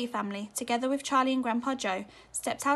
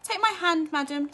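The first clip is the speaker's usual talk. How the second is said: gallantly; 6 semitones higher, 6 dB louder than usual. A narrator's reading. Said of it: "said Mister Wonka gallantly".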